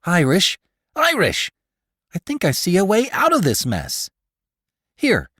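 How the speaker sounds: excited shout with a new idea; loud call. A narrator's reading. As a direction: call out loudly to Irish. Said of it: "Hathaway said it, loud".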